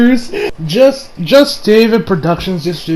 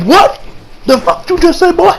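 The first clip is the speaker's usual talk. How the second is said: mock angry challenge; 10 semitones higher than usual. Okuyasu angry at Shigechi.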